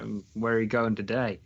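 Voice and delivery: imitated Texan woman; bad Texan accent. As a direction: attempt a Texan accent, badly. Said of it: "it's really bad accent".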